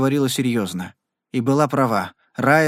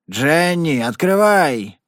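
louder, slow drawn-out yell; 3 semitones higher, 4 dB louder, much slower than usual. Acted. Rider outside hammers at Jenny's door, yelling. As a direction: bellow through the door, stretching it out. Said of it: "заорал кто-то за дверью".

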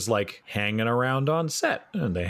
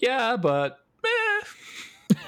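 drawn-out meh; much slower than usual. Retold or imitated. Bond shrugging off a trap.

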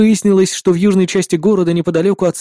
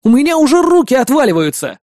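strained shout; 6 semitones higher than usual. A narrator's reading. Hero hanging from the cable, shouting strained. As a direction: yell while hanging on.

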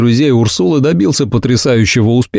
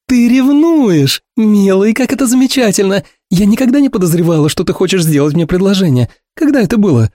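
much higher, gushing and thrilled; delighted Ursula; 9 semitones higher than usual. A narrator's reading. Ursula thrilled her friend might be jealous, high and gushing.

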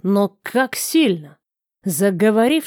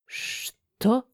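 trembling voice; 8 dB quieter than usual. A narrator's reading. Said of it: "дрогнувшим голосом спросил".

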